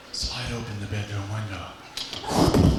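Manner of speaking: a hint of a slow Clint Eastwood growl; slow, menacing cowboy line; lightly voiced Clint Eastwood, slow and grim. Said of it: "I wanna be Clint Eastwood".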